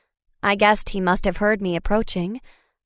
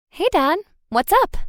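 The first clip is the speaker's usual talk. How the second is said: cheerful; 10 semitones higher than usual. A narrator's reading. Cheerful teen greeting.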